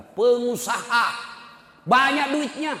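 "Pengusaha" drawn out high and loud; emphatic repeat. Real, not acted. Mocking repeat of son's status.

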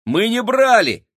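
high, loud protesting shout. A narrator's reading. Boy shouting back at the giantess in protest. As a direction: yell it in alarm. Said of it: "крикнул Максим".

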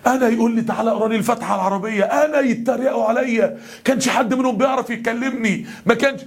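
mock indignation, pitch climbing; imitated fuming outrage. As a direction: act out a wounded, fuming young man. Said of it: "عينيه مبرقة وودنه هتطلع دخان". (تقليد شاب مغتاظ ومستنكر)

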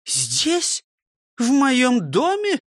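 a shocked hostess crying out; shocked exclamation. A narrator's reading. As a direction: gasp it out in disbelief. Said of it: "воскликнула Фрёкинсталь".

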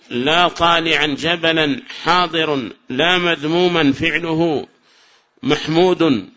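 slow, measured examples; slow teacher's reading; slow recital. Shown as a demonstration. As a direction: read the examples out slowly. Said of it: "recites examples slowly".

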